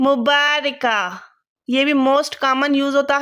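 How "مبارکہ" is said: مبارکہ drawn out slowly, syllable by syllable; slow dictation. Shown as a demonstration. Teacher writing the word, dictating it slowly. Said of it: "تو وہ کیا ہوگا؟".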